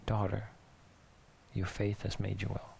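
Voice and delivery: soft and gentle, as if face to face; tender. Retold or imitated. Jesus looks her in the eye.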